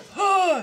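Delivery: high, sudden gasp; demonstrated gasp. Shown as a demonstration. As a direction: suck in a showy breath. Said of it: "talk about your".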